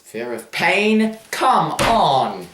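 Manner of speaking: slow scoffing disbelief; incredulous. Real, not acted. Scoffs at silly phobia.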